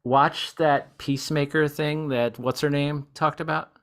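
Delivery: slow, deliberate dictation; dictating to phone. Shown as a demonstration. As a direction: speak carefully for voice recognition. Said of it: "Hey, Siri, take note".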